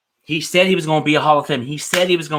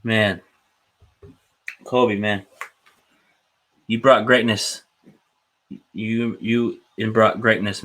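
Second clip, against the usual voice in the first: emotional tribute; 2 semitones lower than usual. Real, not acted. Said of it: "if I get emotional".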